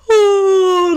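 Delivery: a light imitated yawn Oh; mock yawn. Shown as a demonstration. Showing the boy's trick, a mock yawn. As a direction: fake a yawn to cover a look. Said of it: "like this".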